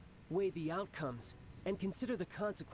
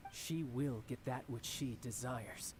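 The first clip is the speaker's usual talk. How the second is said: slow, softer menacing vow; quiet menace; 4 semitones lower, 3 dB quieter, slower than usual. Acted. The Harbinger to the travelers, vowing for the Tsaritsa: slow, quiet menace. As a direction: lean in and promise it. Villain declares will.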